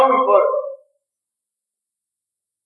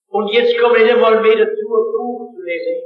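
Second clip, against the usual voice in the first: put-on Swabian accent; 3 semitones higher than usual. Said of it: "Ich war Schwäbisch".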